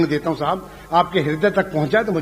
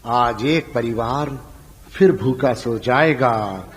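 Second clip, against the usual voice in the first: slow, lower, sorrowful verse; poem recitation; 6 semitones lower than usual. Acted. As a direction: recite it heavy and mournful.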